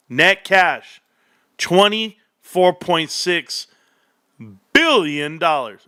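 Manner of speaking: slow, drawn-out villain reveal; lightly voiced Dr. Evil announcing a sum; Austin Powers. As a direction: savor the number like Dr. Evil. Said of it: "I sound like, like, um, Austin Powers".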